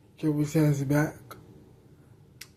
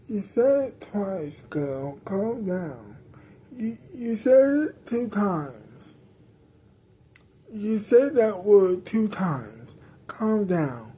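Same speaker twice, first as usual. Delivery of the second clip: snappy. Acted. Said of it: "someone is getting snappy".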